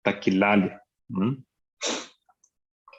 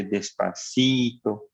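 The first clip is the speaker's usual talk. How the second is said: slowly drawn out; 2 semitones lower, slower than usual. Shown as a demonstration. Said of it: "entra caminando muy lentamente".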